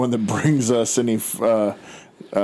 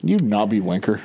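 mock British. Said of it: "what is your accent?".

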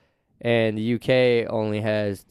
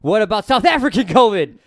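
higher, louder question broken by laughter; laughing question; 9 semitones higher, 7 dB louder than usual. Retold or imitated. Mocking the next covid scare, asked through laughter. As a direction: toss the question out while laughing. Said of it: "And they're like".

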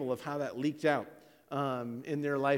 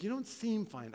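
higher, probing counselor voice; doubting counselor; 8 semitones higher than usual. Retold or imitated. Counselor challenging the husband's answer, doubtful. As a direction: push back in a lifted voice.

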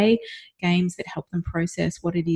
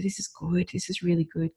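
quiet reassurance; 6 dB quieter than usual. Retold or imitated. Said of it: "I was saying to her".

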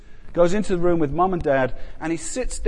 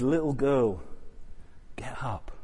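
put-on softer tender words to a child; soft whisper; 2 semitones lower, 8 dB quieter than usual. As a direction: gently rouse a sleeping girl. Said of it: "it's a little whisper".

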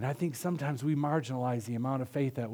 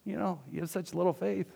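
mock scolding; 4 semitones higher, 6 dB quieter than usual. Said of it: "scolds Peter a little bit".

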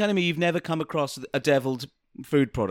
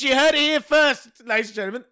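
announcer voice; 7 semitones higher, 6 dB louder than usual. Pretend. Mock announcement to the audience.

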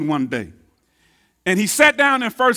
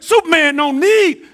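cocky Ali boast; 6 semitones higher, 4 dB louder than usual. Retold or imitated. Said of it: "he said".

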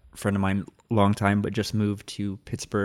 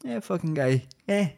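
New Jersey mobster impression, dropping softer at the end; Sopranos-style Jersey accent; Tony Soprano; 4 semitones higher, 4 dB quieter than usual. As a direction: do a Jersey wiseguy grumbling about some guy. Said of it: "whenever I was watching Sopranos".

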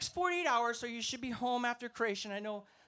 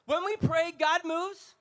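refrain again, louder and higher; preacher repeating his line louder and higher; preaching refrain louder; 5 semitones higher, 6 dB louder, slower than usual. Acted. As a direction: push the refrain up to build the crowd.

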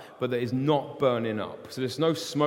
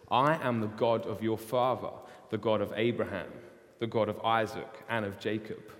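solemn voice of God; 3 semitones lower, 3 dB quieter than usual. Acted. God names himself to Moses.

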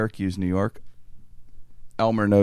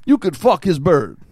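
put-on high, loud old official delivering a punchline; old guy voice; 7 semitones higher, 5 dB louder than usual. Fake IRS agent giving the other option, old guy voice. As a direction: imitate an old man offering an option in earnest. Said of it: "He does this old guy voice".

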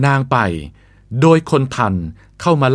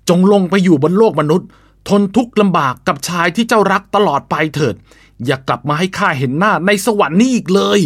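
stern sage cursing, raised voice; harsh scolding; 3 semitones higher than usual. Acted. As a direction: scold and curse her from above. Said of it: "ตำหนิอย่างรุนแรง".

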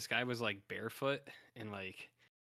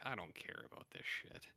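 whispered; 4 semitones lower, 10 dB quieter than usual. Retold or imitated. Quoting his own bored reaction.

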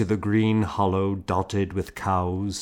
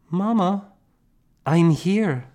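put-on young girl voice; 11 semitones higher, 4 dB louder than usual. A narrator's reading. Girl reassuring her praying mother.

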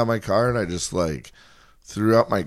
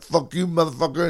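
higher mock-foreign accent, meant as French; uncertain, vaguely foreign accent; muddled foreign accent; 6 semitones higher than usual. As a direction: imitate a man in a badly faked French accent. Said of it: "an Arabic accent that you were doing".

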